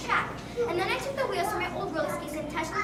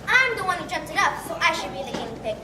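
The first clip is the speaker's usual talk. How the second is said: excited pleading; 6 semitones higher than usual. Acted. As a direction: beg excitedly to go first. Excited girl pleading to fly.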